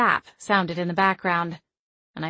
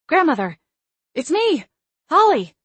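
loud, much higher desperate scream; 9 semitones higher, 8 dB louder than usual. Acted. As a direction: scream to be recognised. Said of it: "she screamed".

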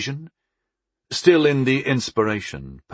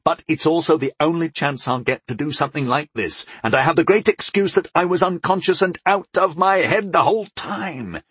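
higher, amused reckless reply; laughing; 6 semitones higher than usual. A narrator's reading. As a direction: cheerfully concede it with a laugh in the voice. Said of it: "I laughed".

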